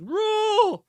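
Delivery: a mock Ramsay yell over a T-Rex; Gordon Ramsay dinosaur roar. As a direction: roar it like a furious TV chef. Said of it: "voiceover of Gordon Ramsay just on every dinosaur".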